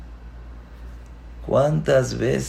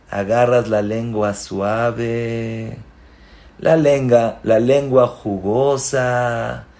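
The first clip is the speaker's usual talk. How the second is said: slow, relishing description; tender tasting tone; soft savoring; slower than usual. Shown as a demonstration. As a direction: savor the word jugosa. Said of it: "hablen de una manera suave".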